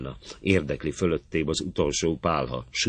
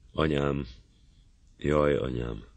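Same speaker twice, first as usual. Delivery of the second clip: mournful cry. A narrator's reading. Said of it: "így szakad a szó tőle".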